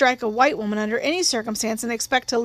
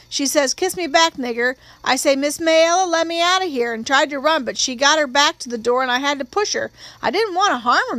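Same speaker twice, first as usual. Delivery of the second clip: higher-pitched witness voice, pressing on through the account; distressed witness testifying; 3 semitones higher than usual. Acted. Witness telling the court what happened, higher and distressed. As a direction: recount it as an upset, reluctant witness.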